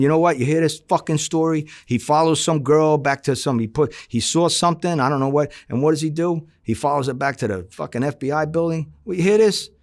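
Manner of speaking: needling the skipper while driving like a lunatic; retold heated rant. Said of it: "And I'm going".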